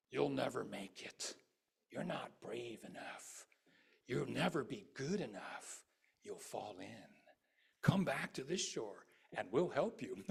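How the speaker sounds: slow, mocking taunt from the bandits; lightly voiced bandits jeering at the traveler. Bandits on this shore jeer at the traveler, slow mocking voice. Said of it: "you hear the voices of bandits".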